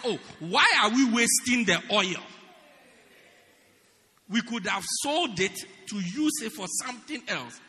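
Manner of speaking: loud, hammed-up complaint about waste; mock indignant outburst. Preacher plays Judas scolding the waste, loud mock outburst. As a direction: act out Judas grumbling.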